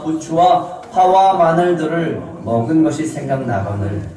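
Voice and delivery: measured sermon reading of the complaint; scripture reading. Acted. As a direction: read the grumbling verse with weight. Reads complaint scripture aloud.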